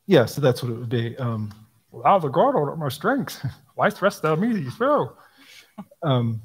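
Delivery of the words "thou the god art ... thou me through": higher, laughing through the tangled words; mock Yoda reading. Shown as a demonstration. Speaker mocking the Yoda-like psalm wording, laughing and high. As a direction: giggle while reciting the garbled line. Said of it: "Yoda, basically".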